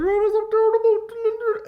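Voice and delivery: put-on loud, high, slow farmer accent; Irish sheep farmer. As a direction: wail it like a rural Irish farmer. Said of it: "the guy is literally like".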